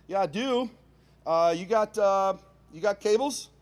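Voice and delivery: high, loud, halting small talk; nervous politeness. Retold or imitated. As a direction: ask haltingly, trying to sound friendly.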